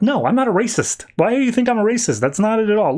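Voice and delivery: high, defensive, flustered protest; hint of a rattled hero; flustered denial. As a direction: scramble to deny the accusation. Oliver denies being called racist.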